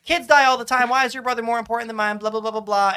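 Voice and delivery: loud, fast mocking monologue; hammed-up villain rant. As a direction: rant it like a big bad. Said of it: "Let me monologue for a minute".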